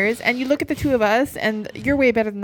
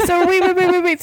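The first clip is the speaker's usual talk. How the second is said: laughing; 7 semitones higher, 4 dB louder than usual. Real, not acted. Laughing, excited interruption.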